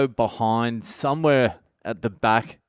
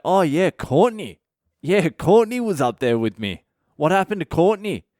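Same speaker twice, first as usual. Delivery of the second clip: sudden realization; 7 semitones higher, 3 dB louder than usual. Retold or imitated.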